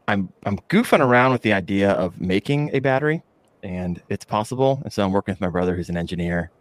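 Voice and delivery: normal talking voice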